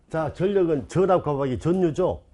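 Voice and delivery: 전력 as "전녁", 전류 as "전뉴"; deliberate mispronunciation. Shown as a demonstration. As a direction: double N in both 전력 and 전류. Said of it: "이상하잖아".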